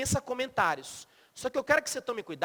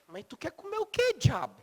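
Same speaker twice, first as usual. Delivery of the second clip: high, incredulous question; impatient retort; 7 semitones higher, 3 dB quieter than usual. Acted. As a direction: throw it back at her, losing patience. Husband's impatient retort to wife.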